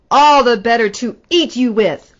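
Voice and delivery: big loud wolf roar; wolf revealing himself before he pounces. Acted. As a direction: pounce on the words. Wolf springs to eat the girl.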